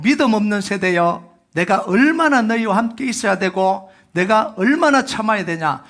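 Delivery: 믿음 hit hard, voice lifted in weary reproach; Jesus scolding his disciples, exasperated; frustrated rebuke. Retold or imitated. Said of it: "예수님의 답답함이 들어있어요".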